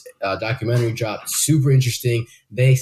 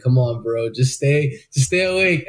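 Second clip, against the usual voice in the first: self-pep talk. Retold or imitated. Talking to himself while fighting sleep, urging. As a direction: coax yourself to hold on. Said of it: "I'm talking to myself".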